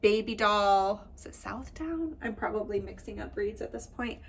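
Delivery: slightly nasal, blocked-nose sound. Real, not acted. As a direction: speak a little through the nose. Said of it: "listening to my nasally voice".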